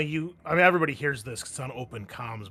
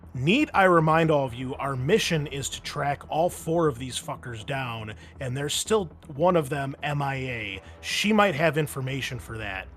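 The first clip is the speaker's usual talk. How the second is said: commanding dressing-down, building louder; shouted reprimand; 4 dB louder than usual. Acted. Captain scolding marines over comms, shouted reprimand. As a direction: chew out the squad, ending in a shout. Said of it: "she's shouting at you".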